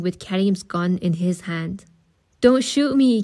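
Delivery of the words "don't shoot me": a pleading, raised cry, higher and louder; terrified plea at gunpoint; frightened cry. A narrator's reading. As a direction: beg him not to fire. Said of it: "Karim cried".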